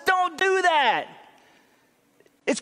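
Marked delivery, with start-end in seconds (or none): 0.1-1.1 high, slow, drawn-out admonition; emphatic command. Acted. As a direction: preach it as a raised, stretched command. Preacher voices Paul's firm command.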